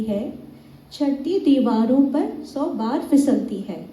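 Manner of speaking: slow, earnest verse with lifted phrase starts; poem recitation. Acted. Reciting Harivansh Rai Bachchan's poem to the audience, earnest recital. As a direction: recite it as encouragement, unhurried.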